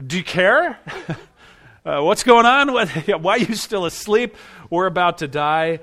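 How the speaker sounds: frightened men shouting over a storm; panicked disciples. Acted. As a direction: cry out to a sleeping man in alarm. Disciples voiced waking Jesus.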